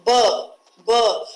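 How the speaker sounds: "b" sounded out twice as in "but"; stressed B sound. Shown as a demonstration. Teacher showing where the stress falls in but, sounded out. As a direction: isolate the "b" sound and repeat it. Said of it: "the stress where it's given is on b".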